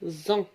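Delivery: "Zon" with a clear Z at the start; liaison sound. Shown as a demonstration. Teacher showing pupils the Z liaison sound. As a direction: stress the Z of "Zon". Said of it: "ال S محصورة. يعني تنقرا زون".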